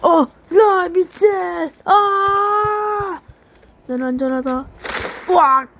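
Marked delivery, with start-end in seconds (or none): 0.0-3.2 sudden loud yelp; panicked yell. Real, not acted. Player getting caught, yelling in panic. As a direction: shout in real alarm.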